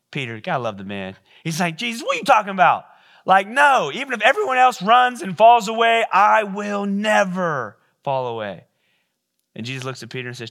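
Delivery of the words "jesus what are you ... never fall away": loud, fast, high-pitched disbelief; indignant protest. Acted. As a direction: shout him down, you'd never run. Peter protests to Jesus.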